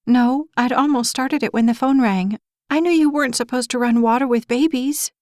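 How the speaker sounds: high, near-hysterical mother; rising hysteria. Acted. Mother answering Gabe as hysteria takes over, high-pitched. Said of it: "Hysteria was taking over her voice".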